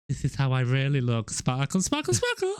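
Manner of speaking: mock Edward. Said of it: "he opens his chest like this and he's like".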